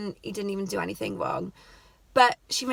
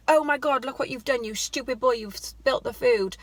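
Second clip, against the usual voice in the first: mock scolding mum; 3 semitones higher than usual. Mum scolding boy over spilt food.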